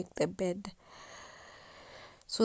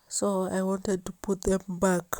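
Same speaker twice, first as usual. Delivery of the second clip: talking through a yawn. Real, not acted. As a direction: yawn while you speak. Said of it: "Sorry, I'm yawning".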